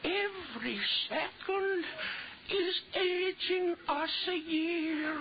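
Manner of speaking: urgent fear. Acted. Urgently explaining fatal aging.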